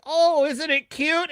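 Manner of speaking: high, slow cooing over a cute pet; mock baby talk to a monster; mock dumb explorer. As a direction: coo like a clueless explorer. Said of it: "and the guy's like".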